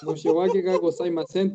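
said slowly, syllable by syllable; slow model phrase. Shown as a demonstration. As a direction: spell out Moshe Wake ga gozaimasen slowly for students. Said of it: "tenéis que decir".

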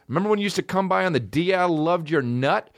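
fast, high mock voice; mock sleazy guy. Comic imitating a creepy poster, high and quick. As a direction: rattle it off like a sleazy dude. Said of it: "a guy who says".

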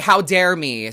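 mock outrage with an audible eye roll; dry sarcastic how-dare-I. Real, not acted. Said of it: "Sarcastic eye roll, literally".

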